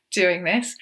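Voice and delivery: normal talking voice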